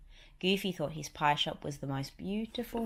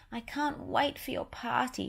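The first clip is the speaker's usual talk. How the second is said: higher cartoon mouse girl; eager and high like Minnie; 8 semitones higher than usual. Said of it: "she told him".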